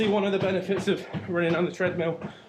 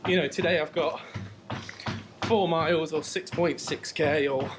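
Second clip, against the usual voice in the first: talking while jogging on a treadmill; a little short of breath mid-run; while running. Real, not acted. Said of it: "forty-five minutes in here".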